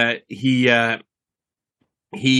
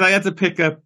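put-on Irish accent; 5 semitones higher than usual. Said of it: "I will do the Irish accent".

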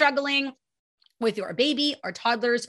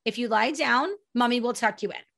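calm. Retold or imitated. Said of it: "I would very calmly say".

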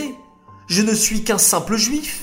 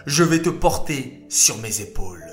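tender pity. Acted. Moshe finds the thirsty lamb, tender and pitying. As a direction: comfort the little lamb. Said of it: "s'exclama Moshe".

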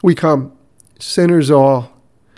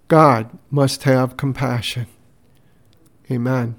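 prayer. Acted. Pastor opening the podcast with prayer, measured. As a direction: pray it gently and deliberately.

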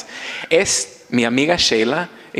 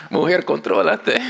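mock self-scolding; 6 semitones higher than usual. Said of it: "de nuevo llorando".

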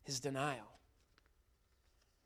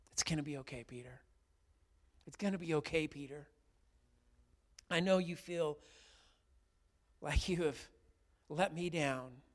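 a lightly voiced, gentle Jesus swelling louder; tender Jesus voice; 2 semitones higher, 10 dB louder than usual. Jesus comforting ashamed Peter, lightly voiced and tender. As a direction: reassure him, then lift it.

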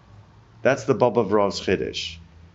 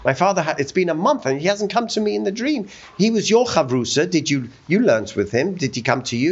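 higher-pitched, urgent appeal; acted anxious questioning in a raised pitch; imitating worried son; 8 semitones higher, faster than usual. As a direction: voice a son pleading for news, pitched up. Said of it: "comes to the Kotzker Rebbe and says".

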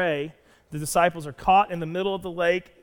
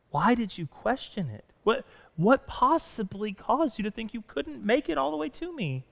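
smiling gentle rebuke. Acted. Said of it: "with a smile on his face".

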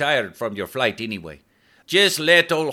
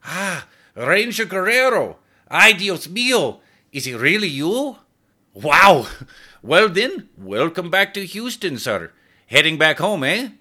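put-on much higher, louder, thrilled, in a Spanish accent; surprised cabbie; 12 semitones higher, 5 dB louder than usual. A narrator's reading. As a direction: starstruck driver recognizing a star, Spanish accent. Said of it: "recoiled in surprise".

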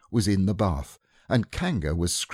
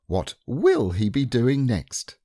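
slow, lightly higher teasing; playful mother; 4 semitones higher, 3 dB louder, slower than usual. Acted. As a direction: humour the child. Kanga voiced in story.

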